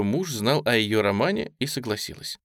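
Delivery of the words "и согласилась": ordinary delivery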